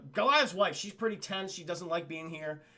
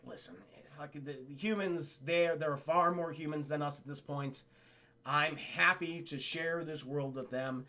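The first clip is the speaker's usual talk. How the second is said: lower, patient acted voice; Goliath; 4 semitones lower than usual. Gargoyle leader reasoning with his wife, calm. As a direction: reason gently in a low register. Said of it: "Goliath is like".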